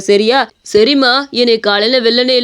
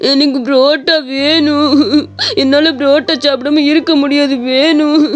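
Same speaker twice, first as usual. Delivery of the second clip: put-on whiny child begging through tears, slowed down; a crying little boy pleading for parotta from his mother; 2 semitones higher than usual. Son wailing to his mother that he wants parotta. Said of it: "அப்பா அவங்க பையன் அழுகிறத பார்த்தாரு".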